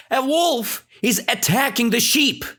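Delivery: high-pitched urgent cry; acted alarm. Shepherd boy warning the nearest villager, acted alarm.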